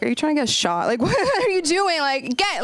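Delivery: high, laughing disbelief; mock alarmed scolding. Comic warning the gay fan who praised her, high alarmed disbelief. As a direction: hiss a warning to a friend. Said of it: "And I was like".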